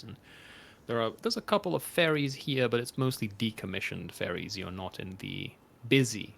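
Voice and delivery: game master scene setting. Acted. GM sets the docks scene.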